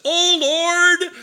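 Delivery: loud, high repeat of the prayer; echoed prayer shout. Retold or imitated. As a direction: shout the prayer back down the road. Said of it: "the guy down the road says".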